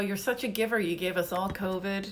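usual speaking voice

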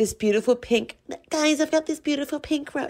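odd, tiny, high, soft put-on voice. Describing a woman filming a soap rose, quoting her in a weird little voice. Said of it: "in a weird little voice she does".

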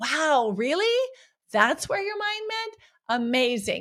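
light, amused laughing tease. Demonstrating how to respond to one's own thoughts, playfully laughing. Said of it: "playfully laugh and be like".

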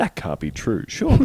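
mock calm, composed, reasonable, measured even tone. Retelling someone's reply to a posted fact, in a mock-measured tone. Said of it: "the tone of voice you've given him is very generous".

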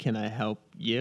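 awkwardly parroted, slow delivery. Retelling a movie scene where a character echoes a librarian: imitating an awkward reply. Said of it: "he said it awkwardly".

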